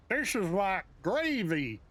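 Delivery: put-on slow, botched English accent; failed English accent. Retrying the Brits' gravy reaction, muddled English accent. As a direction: have another poor go at an English accent. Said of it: "what the hell accent that is".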